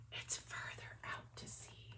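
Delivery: unvoiced secret whisper; mysterious whisper from nowhere. A narrator's reading. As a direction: breathe it like a hidden voice. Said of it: "a hidden voice whispered".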